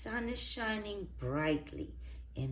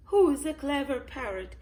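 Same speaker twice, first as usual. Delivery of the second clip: higher, louder parrot repeat; 8 semitones higher, 8 dB louder than usual. A narrator's reading. Polly repeats herself to Miss Rabbit, parrot voice. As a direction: repeat it high and loud like a parrot. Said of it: "she says".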